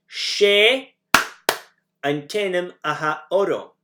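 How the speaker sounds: "She", pause for a clap, then "antenim aha orom"; phrase with a clap gap. Shown as a demonstration. Teacher models the name phrase with a gap. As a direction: leave a beat for the name after "She". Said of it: "put the name where that clap came".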